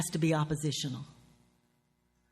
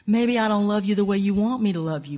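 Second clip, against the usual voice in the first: louder, insistent comeback in a quarrel; acted defensive retort; 3 semitones higher, 6 dB louder than usual. Betrayer answering a heartbroken lover, defensively. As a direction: push back hard at the accusing lover.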